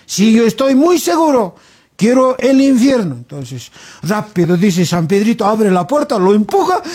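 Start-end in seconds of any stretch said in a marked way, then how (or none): 0.1-3.1 higher-pitched, mock-pompous insistence; emphatic orator. Alan assures San Pedro he is sure, emphatically. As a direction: insist like a politician on stage.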